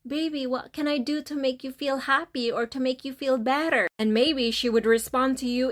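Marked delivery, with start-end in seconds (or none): 0.0-3.9 tender asking. Shown as a demonstration. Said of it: "Ask her this".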